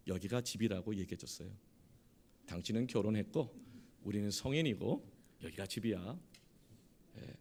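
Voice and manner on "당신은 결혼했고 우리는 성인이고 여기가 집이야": lower, composed reasoning; calm explanation. Retold or imitated. Husband calmly explains to his crying wife, composed. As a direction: explain it with restrained patience. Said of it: "마음을 가라앉히고 아내에게".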